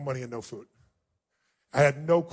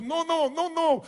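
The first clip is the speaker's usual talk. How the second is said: imitating the woman; 11 semitones higher, slower than usual. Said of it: "She goes".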